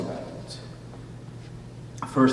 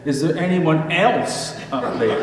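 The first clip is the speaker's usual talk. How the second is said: desperate man; 6 semitones higher, 4 dB louder than usual. Retold or imitated. Punchline, man doubts God.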